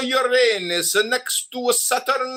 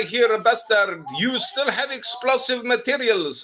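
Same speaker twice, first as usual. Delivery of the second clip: ranting shout. Acted. Caller shouting accusations.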